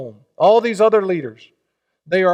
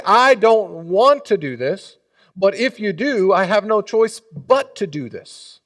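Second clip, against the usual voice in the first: God's stern warning; 4 semitones higher, 4 dB louder than usual. Acted. Preacher voicing God's warning.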